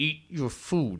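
very hushed, jaw-clenched speech through gritted teeth. Retelling telling a distracted companion to eat, talking through clenched teeth. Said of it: "I'm talking through my teeth".

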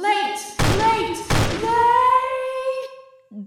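frenzied, very high, raving scream. Narrator voices an unseen voice heard amid gunshots; screaming, raving yell. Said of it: "raving voice that's just yelling".

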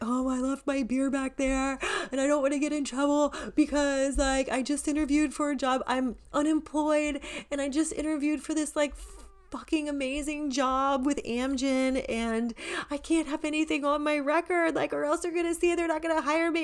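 put-on, high, long-winded, half-sobbing ramble. Retelling a rambling story told to the officers: imitating own high-pitched half-crying rant. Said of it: "big, long-winded, high-pitched, like, half crying story".

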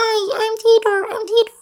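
squeaky chipmunk voice, very high and loud. Attempting a voice the speaker can sometimes do: chipmunk voice. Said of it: "I'm trying to do like an amulet chipmunk's voice".

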